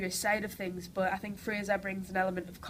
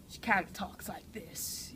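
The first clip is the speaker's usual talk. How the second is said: slow American character voice; drawn-out American accent demo; slower than usual. Shown as a demonstration. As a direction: switch from Geordie into an American accent. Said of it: "my character is from, you know, America".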